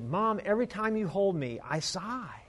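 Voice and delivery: put-on a hushed child explaining the sigh; a girl telling her mother softly why she chose the puppy; little girl voice. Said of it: "she said".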